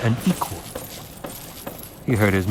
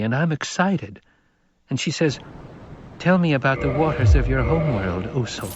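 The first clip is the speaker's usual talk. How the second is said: put-on higher boy's voice, earnest; young boy; 4 semitones higher than usual. Paul answering the Reverend Mother, higher boyish voice.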